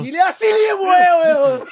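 high-pitched mock wailing rant in gibberish; hammed-up earful. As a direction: shriek an earful in a pretend foreign tongue. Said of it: "got an earful".

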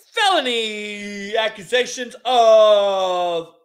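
slow, drawn-out reading of charges; mock judge. Judge charging the defendant in court, slow mock-official delivery. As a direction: lightly play a judge stretching out the words. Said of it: "reenact this with me".

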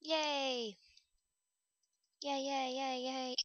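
high, happy repeated yays; excited cheer. Real, not acted. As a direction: cheer like you won. Celebrating success.

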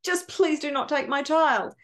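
repeated pleas growing fuller in voice; acted desperate mother, begging for mercy; pleading. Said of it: "sobbing and pleading".

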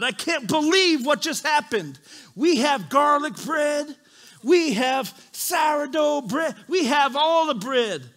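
high, loud excited exclamations; hammed-up crowd excitement; amazed crowd. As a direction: marvel loudly at the miracle, stretching out each kind. Acting out crowd amazed by miracle.

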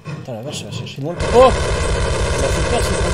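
jumpy, caught off guard by monsters; scared horror game streamer. Real, not acted. Startled by enemies in horror game.

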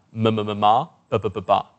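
even syllables, longer last one; lip articulation drill. Shown as a demonstration. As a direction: demonstrate ma and ba groups in rhythm. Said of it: "exercise the tongue and lips".

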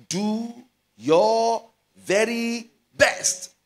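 loud, high, slow cry of "your very best"; preaching shout. Real, not acted. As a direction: lift the congregation with it. Preacher urging best effort.

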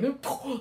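high little "ooh" of fright; mock spooked ooh. Imitates being spooked by the thought.

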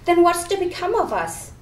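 a worried pumpkin pleading; jack o lantern voice. Acted. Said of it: "The pumpkin head suddenly looked unhappy".

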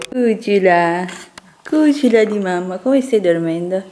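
doting pet talk. Real, not acted. Mum to her little darling asleep, cooing. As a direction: coo fondly at your darling.

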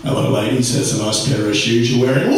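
low, smooth Australian charmer; Hemsworth. Retold or imitated. Comedian showing a stereo's cool setting, low chilled voice. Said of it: "It's got Hemsworth and Irwin. You turn it from".

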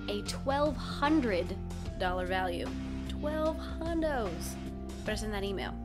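hoarse laryngitis voice; croaky voice. Real, not acted. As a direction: read the news through a sore throat. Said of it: "so I have kind of a croaky voice".

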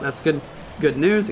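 speaking through hiccups; hiccupping between words. Real, not acted. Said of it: "I got the hiccups".

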